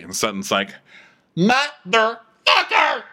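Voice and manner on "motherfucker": high, drawn-out comic swear; mock shout. Sutton trying out a swear before the waiter, mock shout. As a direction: belt it out slowly and awkwardly.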